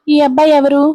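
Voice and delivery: puzzled, rising at the end; surprised question. A narrator's reading. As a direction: ask who the boy is with mild surprise. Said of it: "ఆశ్చర్యంగా చూస్తూ".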